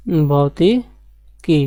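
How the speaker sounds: very drawn-out भौतिकी, each syllable stretched; slow dictation. Shown as a demonstration. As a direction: spell out भौतिकी slowly for the class to write. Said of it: "क्या है?".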